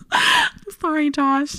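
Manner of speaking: high, slow apology broken by laughter; laughing apology. Real, not acted. Sorry to her friend Josh, laughing. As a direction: apologize while you can't stop laughing.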